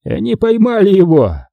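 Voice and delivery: high, excited announcement; triumphant. A narrator's reading. Boss shares news of the capture, triumphant. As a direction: crow it, pitched well up. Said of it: "сказал он и улыбнулся".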